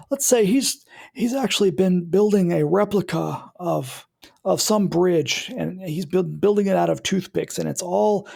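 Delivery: a hint of a Jimmy Stewart engineer; old man voice. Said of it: "do the old man voice".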